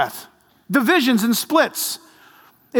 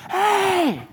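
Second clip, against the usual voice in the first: put-on playful kid call; 10 semitones higher than usual. Child's shout in story.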